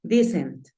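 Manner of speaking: "decent" said "dee-sent"; long ee opening "decent"; changed first vowel. Shown as a demonstration. Teacher applying vowel rule, "decent" as dee-sent. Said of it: "en vocal. Entonces digo decent".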